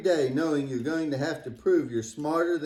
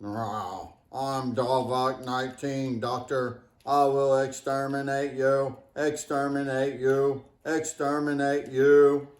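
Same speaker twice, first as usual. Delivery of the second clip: slow, menacing sci-fi villain voice; slow, drawn-out alien villain threat; Doctor Who baddie; 3 semitones lower than usual. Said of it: "sounds like a baddie on Doctor Who".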